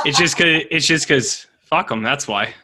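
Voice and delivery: put-on New Zealand accent, starting loud and dropping off; playful New Zealand impression; mock New Zealand accent. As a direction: imitate a blunt New Zealander. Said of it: "that's R J's New Zealand accent".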